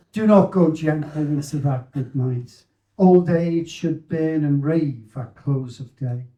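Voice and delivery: steady, declaiming poem reading; poem recital. Acted. Speaker recites the poem he wants read at his funeral, declaiming.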